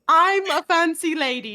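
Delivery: mock posh British lady; put-on posh British, amused; posh British accent. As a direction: attempt a fancy upper-class British accent. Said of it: "is this closer to, like, a posh accent?".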